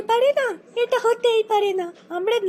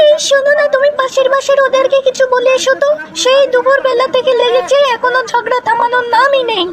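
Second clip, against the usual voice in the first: loud complaint; 8 dB louder than usual. Acted. Wife complains over neighbours' fight.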